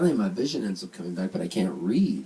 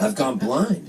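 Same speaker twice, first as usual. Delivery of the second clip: raised-voice announcement; 7 semitones higher, 6 dB louder, slower than usual. Retold or imitated. Retold plea to the nurse.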